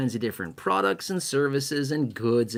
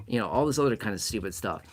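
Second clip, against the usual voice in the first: ordinary delivery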